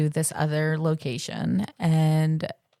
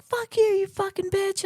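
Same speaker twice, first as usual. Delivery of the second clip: mock angry man; 14 semitones higher than usual. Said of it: "And he's like".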